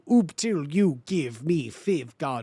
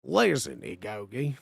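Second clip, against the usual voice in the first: put-on Southern accent; 7 semitones lower than usual. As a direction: lower Southern "Listen, Igogi". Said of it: "Cornbread Southern".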